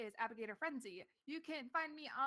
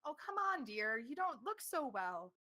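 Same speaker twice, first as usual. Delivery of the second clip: exaggerated fuss.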